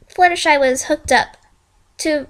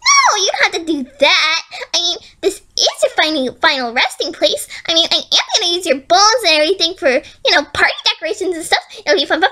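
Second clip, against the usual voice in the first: gleeful menace; 5 semitones higher than usual. Acted. Villain gleeful about bones.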